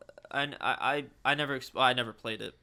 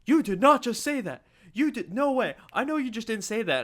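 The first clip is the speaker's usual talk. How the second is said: higher, louder disbelieving mock kid voice; imitating shocked kid; 10 semitones higher, 7 dB louder than usual. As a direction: play the stunned classmate. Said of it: "was like".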